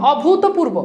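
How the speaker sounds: "অভূতপূর্ব" as o-bhu-to-pur-bo; pronunciation demo. Shown as a demonstration. Teacher repeating the word for students, carefully pronounced. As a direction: give "অভূতপূর্ব" a clear bhu and to. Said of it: "আগে উচ্চারণটা বুঝেন".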